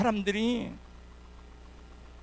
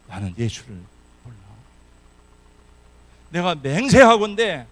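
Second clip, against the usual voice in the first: cursing denial; 5 dB louder than usual. Acted. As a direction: swear desperately. Peter's third denial with oath.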